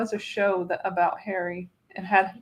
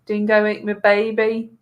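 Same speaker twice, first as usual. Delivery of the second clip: light mock Australian accent; 5 dB louder than usual. Host quoting a famous line, in Australian accent. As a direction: quote it with a touch of Australian accent. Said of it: "You can't say that without doing the accent".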